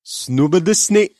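saying a reversed phrase slowly; backwards speech. Shown as a demonstration. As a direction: sound out the garbled backwards words. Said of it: "I need your reversal".

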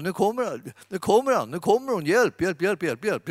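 a mock cry for help as darkness flees; mock panic. Darkness panics at believer's approach.

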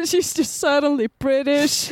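slow, lightly voiced boss breaking into laughs; calm the staff while stifling giggles; mock boss.

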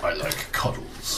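soft breathy creature voice; whispery dog voice. Pretend. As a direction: murmur it like a sweet dog.

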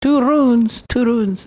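mock the Russian lady, stretch "runs"; Russian accent. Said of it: "thick Russian accent".

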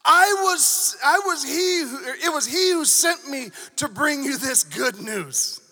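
Gabriel, angry. Acted. Angel rebuking Zechariah over the good news, angry booming voice. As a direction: thunder it out slowly, indignant. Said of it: "He's angry".

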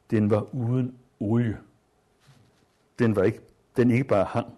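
measured literary read-aloud voice; story reading. Acted. Teacher reading a wartime story aloud to students, measured. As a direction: read the passage to the class with care.

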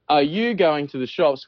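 slow, properly enunciated southern Australian; southern Australian accent. Shown as a demonstration. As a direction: ask carefully in a refined southern Australian accent. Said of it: "think they're better than us in the tropics".

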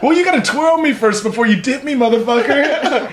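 high, laughing mock demand; sassy comeback through laughter; mock indignation. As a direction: play offended while cracking up. Jokey retort about being dipped.

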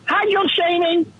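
high, drawn-out incredulous question; incredulous echo. Pretend. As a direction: stretch it out, high and slow, in mock disbelief. Echoing the term in disbelief.

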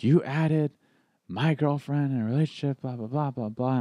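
mock-accusing; mad friend. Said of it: "he's never been mad".

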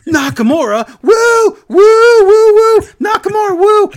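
high, loud whooping wrestler impression; imitating Football Head. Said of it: "imitates Football Head".

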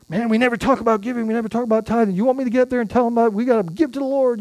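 quick, lightly voiced grumble from a colleague; imitating Jerry. Pastor mimics Jerry's quick mock complaint about preaching on giving. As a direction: rattle it off like a fast mock complaint. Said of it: "Jerry always says".

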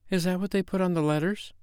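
polite, high-pitched hostess question; nicely polite. A narrator's reading. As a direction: ask tactfully, as a good hostess. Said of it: "Wendy said nicely".

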